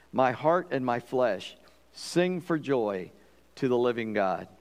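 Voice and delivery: slow, measured psalm reading; scripture reading. Acted. Preacher opens with a psalm before prayer, reverent scripture reading. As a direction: read the psalm slowly, with pauses between phrases. Reads psalm aloud to congregation.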